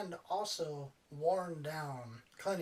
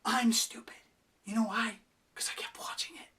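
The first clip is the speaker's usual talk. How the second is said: whispered self-mocking admission; confessing aside; 4 semitones higher than usual. Real, not acted. Reviewer admitting to viewers he kept watching, whispered. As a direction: let the viewers in on a secret.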